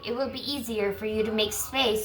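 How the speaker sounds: strained voice, losing it; losing her voice. Real, not acted. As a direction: voice going hoarse and tired. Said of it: "I'm losing my voice".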